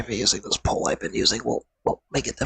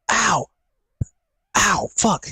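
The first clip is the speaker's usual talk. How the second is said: pained cry; 7 semitones higher, much slower than usual. Real, not acted. Pain when putting weight on foot.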